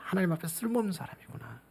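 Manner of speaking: a hushed confession after the outburst; soft humbled echo. Shown as a demonstration. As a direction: sink into it quietly before God. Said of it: "아무것도 쓸모없는 사람이구나".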